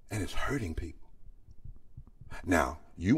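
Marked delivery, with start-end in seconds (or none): 0.1-1.1 breathy hushed aside; whisper. Real, not acted. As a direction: drop to a whisper on the pain. Whispered sermon close.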